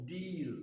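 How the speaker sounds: "deal" with one long, pure ee; long vowel. Shown as a demonstration. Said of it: "with the long vowel".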